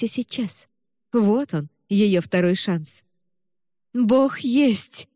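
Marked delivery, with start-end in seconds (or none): 3.9-5.1 exclaiming. A narrator's reading. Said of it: "воскликнула мать".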